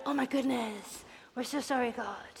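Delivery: soft, contrite apology; subdued, sorry crowd; hushed repentance. Acted. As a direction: drop the volume and apologise.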